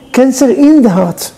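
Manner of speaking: slow, weighted Cancer in the heart; slow grave repeat. Shown as a demonstration. Rabbi stressing the wife's illness to listeners, slow and grave. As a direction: let Cancer in the heart sink in slowly.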